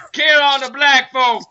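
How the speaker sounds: mock shout. Reading card as shouted punchline.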